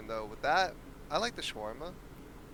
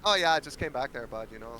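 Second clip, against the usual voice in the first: put-on Canadian accent. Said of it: "It's this Canadian accent for me".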